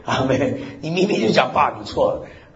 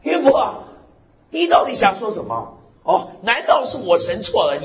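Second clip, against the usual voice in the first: God calling out Job in displeasure; displeased God; 8 semitones higher than usual. Retold or imitated. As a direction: scold Job as an offended God. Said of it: "最后神不高兴了".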